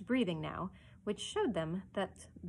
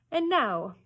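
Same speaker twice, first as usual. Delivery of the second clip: raised, louder polite address; courteous; 6 semitones higher, 7 dB louder than usual. A narrator's reading. Hook turns to the other pirates, courteous. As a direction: address them with mock courtesy. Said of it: "Hook asked courteously".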